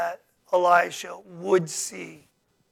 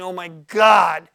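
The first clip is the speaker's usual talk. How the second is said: slow, loud alarmed oh my God; distressed cry; 9 dB louder, slower than usual. Acted. Servant sees the army and cries out in alarm. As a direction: voice the servant's panic. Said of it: "if I can say it like that".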